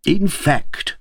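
high-pitched triumphant summing-up; conclusive. A narrator's reading. King interrupts the Queen to end their argument, conclusively. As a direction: announce it as the winning conclusion. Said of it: "with the tone of one who concludes an argument".

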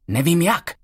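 vyšším, napjatým hlasem; bezradně. A narrator's reading. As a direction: zoufale přiznat, že neví jak. Bezradný Jacob. (Jacob bezradně přiznává Emmě, vyšší napjatý hlas)

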